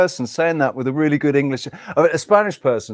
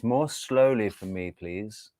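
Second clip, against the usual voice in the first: soft polite request; 4 semitones lower, 9 dB quieter, slower than usual. Acted. Acts out learner's polite request, translated.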